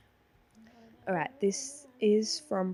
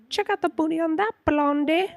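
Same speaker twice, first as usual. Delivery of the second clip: higher, louder movie line; movie quote; 6 semitones higher, 7 dB louder than usual. Acted. Player gives friend a She's the Man line, movie-quote voice. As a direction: punch out the line like a film character.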